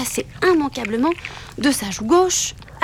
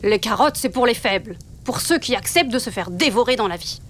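père loup sévère. Acted. Papa Loup sermonne son fils.

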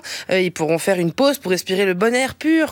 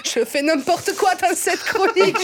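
higher, frantic inner voice bickering with herself; manic self-argument; 6 semitones higher than usual. Pretend. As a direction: play a giddy mock-crazy alter ego. Arguing with herself, mixed accents.

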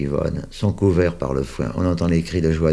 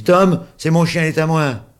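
put-on high loud child's protest; upset boy claiming his dog; possessive child; 11 semitones higher, 7 dB louder than usual. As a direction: insist like a hurt little boy.

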